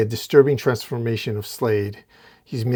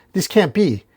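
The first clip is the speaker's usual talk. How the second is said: higher, louder outcry; retold yell; 4 semitones higher, 6 dB louder than usual. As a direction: yell in disbelief. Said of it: "Batman yells".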